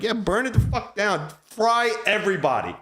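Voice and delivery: cheering. Retold or imitated. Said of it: "I was like".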